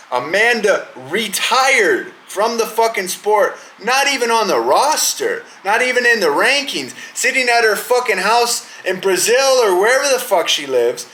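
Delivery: getting worked up over the fight; riled-up rant. Real, not acted. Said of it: "I'm getting all fucking riled up".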